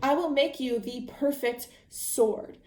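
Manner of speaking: a lightly voiced thrill, the first words drawn out slowly; a small delighted gasp at the challenge, then a promise; excited. Swordsmith father gets excited at the six-fingered man's request, a light touch of excitement. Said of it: "And Domingo gets excited".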